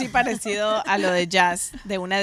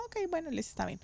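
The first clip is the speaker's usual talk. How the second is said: resigned; 8 semitones higher, 12 dB quieter, faster than usual. Retold or imitated. Accepting husband's plan, disappointed.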